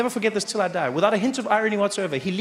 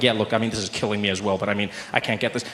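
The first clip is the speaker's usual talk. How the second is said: deep, low stressed official; 9 semitones lower than usual. Retold or imitated. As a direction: play a gruff official under pressure. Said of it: "He's like".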